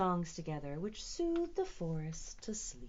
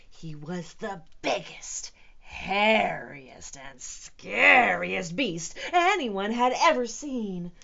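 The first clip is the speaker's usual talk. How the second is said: building from whisper; 9 dB louder than usual. A narrator's reading. Scary beast description building up.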